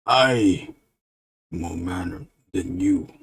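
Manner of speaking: lightly voiced dumb monster; broken, dim-witted monster talk; a hint of a dopey monster; stupid monster. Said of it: "that monster talks stupid".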